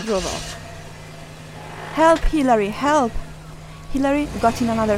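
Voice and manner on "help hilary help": raised, higher call for help; mock cry for help. Mom calling Hilary for help, raised mock cry. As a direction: call out as if being carried off.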